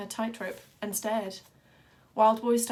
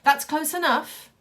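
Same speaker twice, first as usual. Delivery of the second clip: sharp command; 6 semitones higher, 9 dB louder than usual. Acted. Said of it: "the ringmaster said".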